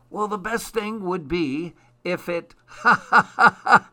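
high frog voice collapsing into loud ha-ha-ha; breaking into laughter. A narrator's reading. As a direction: start speaking, then burst out in acted giggles. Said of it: "she couldn't stop laughing".

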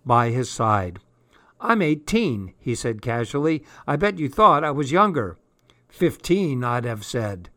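lightly voiced young Cockney lad; chatty street boy, a touch hoarse. Boy character voice.

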